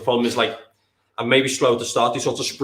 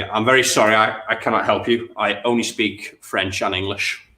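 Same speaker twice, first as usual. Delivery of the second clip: put-on light French accent on the judge's reply; mock French accent. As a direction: slip into a half-hearted French accent. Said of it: "What's my accent doing?".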